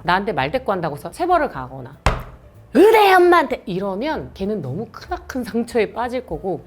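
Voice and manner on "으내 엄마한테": put-on shrill, loud child yelling back; child talking back, loud and high; bratty child retort. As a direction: snap back at mom like a defiant kid.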